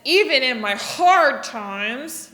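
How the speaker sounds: "Even in my hard times" with a frowning, frustrated face. Shown as a demonstration. Teacher showing kids a frustrated face on hard times. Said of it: "get kind of a frustrated face".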